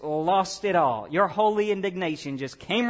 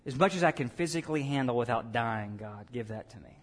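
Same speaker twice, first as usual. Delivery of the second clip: a soft, earnest prayer voice, much softer; hushed prayer; 7 semitones lower, 5 dB quieter than usual. Real, not acted. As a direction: pray it under your breath, meaning every word. Pastor's own earnest prayer.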